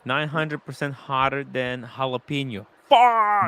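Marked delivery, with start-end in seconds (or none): 2.9-3.5 shocked. Real, not acted. Shocked at pepper heat rating.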